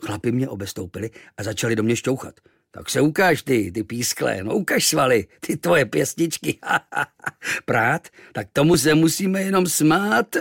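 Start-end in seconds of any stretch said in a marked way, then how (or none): 2.7-6.6 louder, higher mocking taunt; lightly voiced taunting sailors. 6.6-7.6 short breathy mocking laugh; lightly voiced sailor laugh. 7.6-10.4 high, loud, slow scoffing; hammed-up scornful sailor; mocking sailor.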